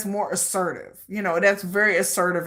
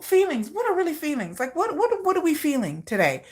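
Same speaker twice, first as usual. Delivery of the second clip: evasive dodging; 6 semitones higher than usual. Pretend. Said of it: "how do you feel about me".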